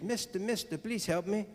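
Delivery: high, hushed call for help; little frog voice. Acted. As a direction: plead softly as a little talking frog. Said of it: "and he hears".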